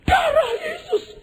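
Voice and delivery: very high, slow shriek; mock terrified invocation; imitated Pentecostal cry. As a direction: scream like a panicked Pentecostal invoking protection. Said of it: "orang Pentakosta ini".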